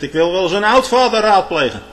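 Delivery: high, forceful quoted request; quoted biblical demand. Acted. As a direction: call it out as Saul's demand. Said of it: "Hij zegt".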